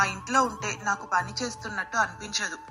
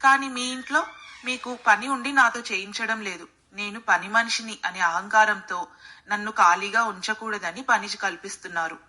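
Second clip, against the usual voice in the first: calm, lower-pitched maid's voice; 3 semitones lower than usual. A narrator's reading. Maid explaining to employer why she feels different there, calm. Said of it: "ప్రశాంతంగా సమాధానం ఇచ్చింది".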